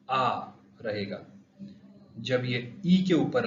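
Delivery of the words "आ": आ said with stress; stressed vowel. Shown as a demonstration. Teacher demonstrating the stressed sound. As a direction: hit the vowel आ firmly. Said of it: "stressed".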